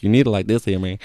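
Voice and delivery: a light mock Hispanic accent; shopkeeper's line in a half-hearted Hispanic accent; bad Hispanic accent. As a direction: toss off a crude Hispanic accent impression of the shop guy. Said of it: "that was a really bad racist accent".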